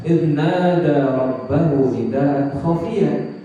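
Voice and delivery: very slow, drawn-out Arabic verse; Quran recitation. Shown as a demonstration. Preacher quoting the verse on Zakaria's prayer, slow recitation. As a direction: recite it with long held syllables.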